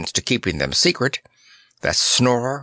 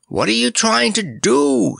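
scream; 11 semitones higher than usual. Acted. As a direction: scream the question in alarm. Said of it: "screamed Snorer".

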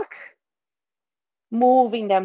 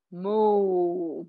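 cow moo; 4 semitones lower, 3 dB quieter than usual. Shown as a demonstration. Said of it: "And a cow".

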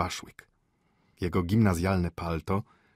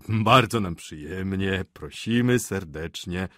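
joyful welcome; 5 dB louder, slower than usual. Acted. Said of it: "wyrzekł radośnie ojciec".

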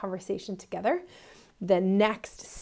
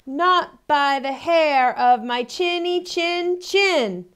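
loud, slow, higher refusal; defiant pig; 7 semitones higher, 9 dB louder, much slower than usual. Acted. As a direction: plant your feet as the pig. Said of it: "said the second little pig".

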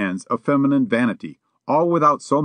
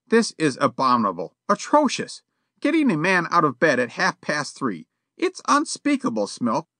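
put-on much higher, outraged fussy old man; indignant old gentleman; 5 semitones higher than usual. A narrator's reading. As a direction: sputter with prim outrage. Yollop outraged voiced.

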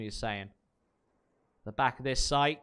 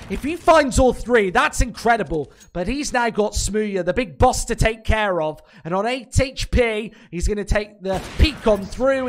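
louder, rising hype through the clutch; excited call; 3 semitones higher, 6 dB louder than usual. Real, not acted. Caster calling Smooya's clutch, excited. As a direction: build it as the clutch unfolds.

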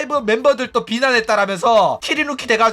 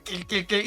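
spoken mock giggle; imitated snicker; 9 dB quieter than usual. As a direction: voice a light, fake snicker. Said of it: "웃기 시작하죠". (낄낄대는 웃음 흉내)

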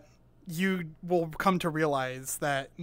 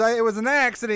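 slightly raised redneck excuse, imitated; thick Southern accent; 4 semitones higher, 4 dB louder, faster than usual. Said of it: "his southern accent had a southern accent".

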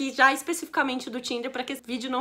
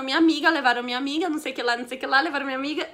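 imitating panicked friend; much faster than usual. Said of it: "ele acabou indo até uma polícia falando".

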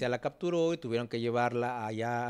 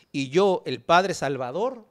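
slow, drawn-out "padre Salvador"; lightly mocking heroic boast; mock self-important; 3 semitones higher, 5 dB louder, slower than usual. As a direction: play the grand saviour, slightly louder. Mocks Santiago casting himself as rescuer.

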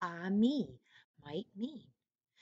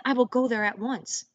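eager; 4 semitones higher, 10 dB louder than usual. Acted. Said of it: "cried the youngest son".

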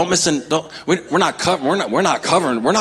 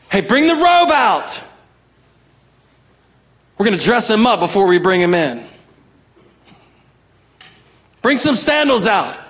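dad yelling; 4 semitones higher than usual. Retold or imitated. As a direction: call out to the servants with joy. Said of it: "the dad yelling back on".

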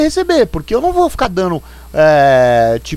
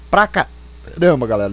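talking through hiccups; words broken by a hiccup; 4 semitones lower than usual. Real, not acted. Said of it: "Desculpa, eu tô com soluço".

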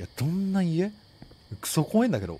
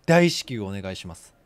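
curt bossy request; 6 semitones lower, 4 dB louder than usual. Retold or imitated. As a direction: stress on 大, falling and low. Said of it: "こういう言い方するやつ".

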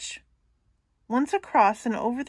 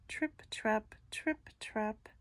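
tiny hooves, barely breathed; whispered hoof sounds; 9 dB quieter, slower than usual. A narrator's reading. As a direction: whisper the trip, trap. Hoof sounds, repeated hushed.

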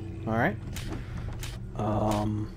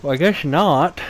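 holding back a yawn; stifled yawn; 4 dB louder than usual. Real, not acted. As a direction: talk through a suppressed yawn. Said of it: "Sorry, I almost yawned there".

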